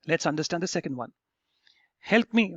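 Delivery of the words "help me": higher, mild mock yell; a half-hearted cry for help. Shown as a demonstration. Teacher reading out Robin's line, mildly yelled. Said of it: "Robin yelled".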